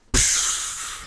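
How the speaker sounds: loud wordless burst of air; puffed-out sound of amazement; mind-blown noise. Retold or imitated. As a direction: blow out a mock explosion. Imitates his mind being blown.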